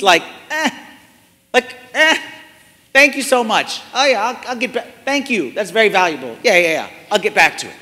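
offhand, dismissive thanks, a careless shrug in the voice; flippant brush-off. Shown as a demonstration. Preacher acts out a careless receiver, breezily dismissive. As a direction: play someone waving off a valuable gift.

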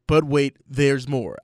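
slow, punchy infomercial pitch. Pretend. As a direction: deliver it like a TV pitchman. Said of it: "I feel like the infomercial guy".

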